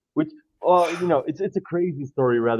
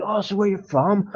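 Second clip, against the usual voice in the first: imitating the dad; 9 semitones higher than usual. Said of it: "So he was like".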